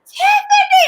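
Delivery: loud excited call across the room; high excited shout of a name. Retold or imitated. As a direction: shout her name to get her attention. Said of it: "And Willow goes".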